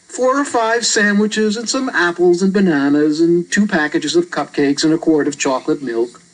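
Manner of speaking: put-on a matter-of-fact young boy; a hint of a casual boy explaining; boy character voice. Reader voices Albert.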